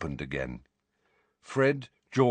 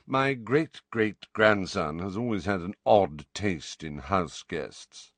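put-on dry old wizard; slower than usual. Phineas voiced dryly.

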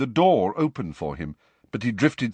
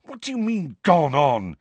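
high, urgent question; quick challenge; 7 semitones higher, 4 dB louder than usual. A narrator's reading. Harry jumps on Nick's phrase, urgent. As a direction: seize on it immediately. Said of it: "said Harry quickly".

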